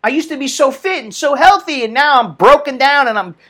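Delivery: mild mock whine to mom, ending in a yelp; half-hearted complaining to his mother; whining. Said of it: "I was whining".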